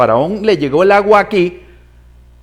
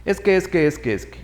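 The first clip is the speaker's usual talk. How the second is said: mock excuses. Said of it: "le pone un montón de excusas".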